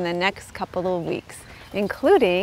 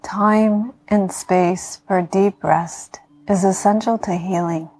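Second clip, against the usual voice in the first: guided meditation. Acted. Yoga teacher talking listeners into healing rest, calm meditation voice.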